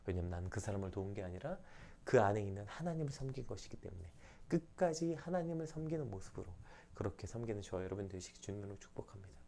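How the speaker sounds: ordinary talk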